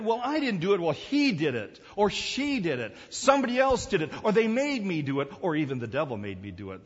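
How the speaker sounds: mock excuses. Sinners' excuses voiced.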